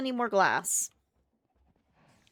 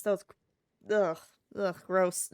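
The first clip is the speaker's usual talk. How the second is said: disgusted ugh after drink up the nose; annoyed ugh. Real, not acted. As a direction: groan it out in disgust. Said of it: "I just splashed some energy drink up my nose".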